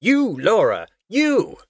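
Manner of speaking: loud, high commanding yell; urgent shout. A narrator's reading. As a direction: shout it straight at one crew member. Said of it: "he was shouting at me".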